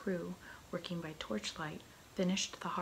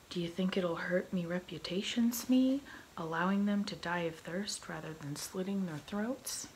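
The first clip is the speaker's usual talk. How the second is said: louder, theatrical pirate captain voice; swaggering pirate captain; 5 dB louder than usual. Acted. Pirate captain questioning his first mate about the prisoners, swaggering. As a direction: play a pirate captain weighing his reputation.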